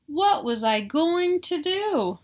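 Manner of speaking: slow, worried high question; dismayed. A narrator's reading. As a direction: lift it in dismay. Child narrator despairs.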